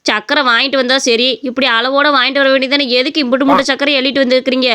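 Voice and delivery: a lightly voiced old mother-in-law, annoyed; scolding mother-in-law.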